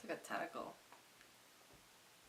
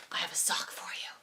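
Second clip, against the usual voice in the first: secretive salesman. Retold or imitated. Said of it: "And he says".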